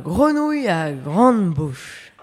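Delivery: story narration. Acted. Reads a children's story.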